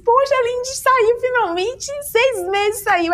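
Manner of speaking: high and slow, drawn-out relief; relieved joy. Retold or imitated. Seeing her name on the big TV, relieved joy. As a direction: let it out slowly, finally relieved.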